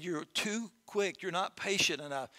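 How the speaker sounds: calm farmer. Acted.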